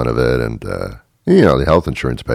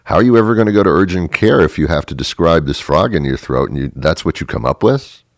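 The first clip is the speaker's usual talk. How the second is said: exasperated scolding; 3 semitones higher, 3 dB louder than usual. Pretend. Receptionist scolds.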